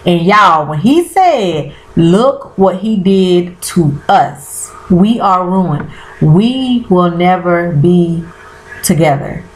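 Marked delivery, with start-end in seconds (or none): 1.9-9.4 slow, heavy, holding back tears; slow tearful plea. Retold or imitated. Fitz pleading with Liv, slow and tearful. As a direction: drag it out as if near tears. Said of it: "He had tears in his eyes".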